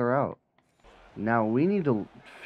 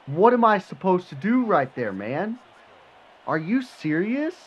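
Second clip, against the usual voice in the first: disbelieving; 9 semitones higher, 5 dB louder than usual. Real, not acted. Disbelief after conceding the catch.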